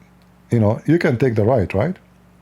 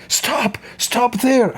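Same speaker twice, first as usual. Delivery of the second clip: sharply raised pitch, held-back volume; retold police order; 10 semitones higher, much slower than usual. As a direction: imitate an alarmed cop ordering a halt.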